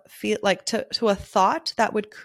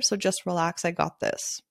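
easy, settling, softer at the end; calm; 4 dB quieter than usual. Retold or imitated. Photographer calmly reassuring a stressed client, calm. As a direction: reassure calmly, letting the voice drop. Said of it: "even if I said it calmly".

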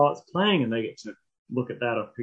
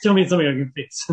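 pleading; 5 dB louder than usual. Retold or imitated. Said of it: "pleading voice, louder".

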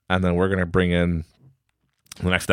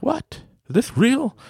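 shocked disbelief; slower than usual. Retold or imitated. Staff shocked by senior card.

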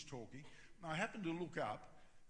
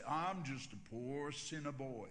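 slow, drawn-out self-deprecating reply; lightly voiced Texan; 3 semitones lower than usual. Texan churchgoer answering the pastor's greeting, slow and drawn out. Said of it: "he'd always respond exactly the same".

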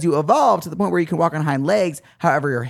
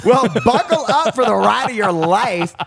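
dramatic announcer; 4 semitones higher, 3 dB louder than usual. Pretend. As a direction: announce it like a big show. Playing her British-woman self.

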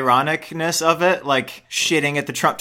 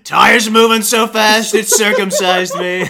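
Trump impression; 2 semitones higher, 5 dB louder, slower than usual. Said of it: "My Trump impression".

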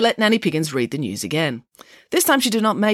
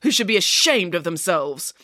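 lightly voiced, self-assured newsreader pig; animated bulletin with swooping higher pitch; Nanny Piggins reading the news; 7 semitones higher than usual. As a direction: deliver made-up news with lively conviction.

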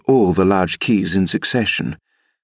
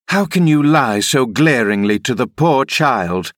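higher, indignant call from behind a door; 5 semitones higher than usual. Acted. Nurse calling to the rider from inside, mildly indignant call. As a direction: call out your reproach in a raised pitch. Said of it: "I called from the inside".

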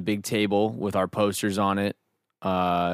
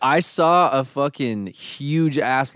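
laughing; 6 semitones higher, 6 dB louder, slower than usual. Real, not acted.

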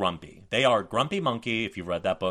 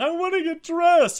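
put-on high, loud wailing toddler voice; mock crying kid; 7 dB louder than usual. Son crying he wants to get dressed after all, loud high wail. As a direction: wail it like a sobbing three-year-old. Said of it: "he starts crying".

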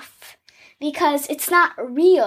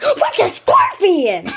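higher, louder, laughing question; puzzled child; 7 semitones higher, 5 dB louder than usual. Retold or imitated. Girl retelling her confused question to her parents. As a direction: ask it as a baffled little kid. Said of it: "I was like".

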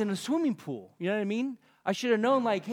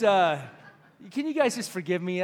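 laughing apology; 4 dB louder than usual. Real, not acted. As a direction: plead while laughing.

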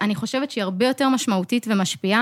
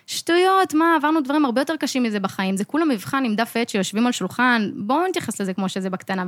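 dismissive pep talk. Retold or imitated. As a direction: wave the exam away like it's nothing. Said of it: "הייתי אומרת לעצמי". (שיחת עידוד מבטלת ובטוחה)

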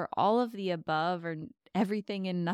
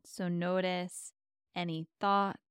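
guided meditation. Acted. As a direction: ease them into calm with long pauses.

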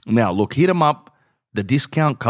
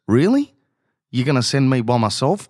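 high, incredulous mock wife; wife's reply; 4 semitones higher than usual. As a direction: play the shocked wife, pitch jumping up. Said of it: "And she goes".

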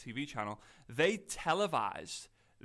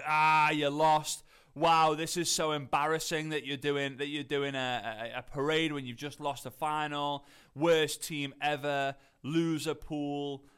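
slow, louder jeering sneer; mocking troll comments; 4 dB louder, slower than usual. Reading out trolls slating Liverpool, slow mocking jeer. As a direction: drag it out like a smug online troll. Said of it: "slating Liverpool".

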